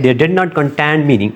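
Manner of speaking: slowly dictating a definition word by word; teacher's slow dictation voice. Shown as a demonstration. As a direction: spell it out slowly so students can write.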